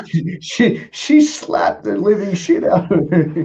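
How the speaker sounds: high-pitched, helpless laughter through the words; laughing while talking. Real, not acted. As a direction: struggle to get it out through real laughter. Laughing along at the story.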